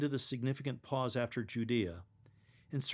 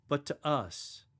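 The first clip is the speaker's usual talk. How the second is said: personal; slower than usual. Shown as a demonstration. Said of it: "say it as if you're speaking personally".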